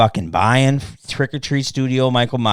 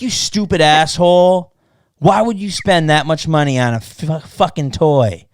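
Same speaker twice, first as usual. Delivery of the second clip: imitated irate scolding, punched at the start; mock yelling; 3 semitones higher than usual. Imitating a messager scolding him over toy spending, mock yelling. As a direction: play an outraged online critic, mildly. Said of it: "What are you yelling for?".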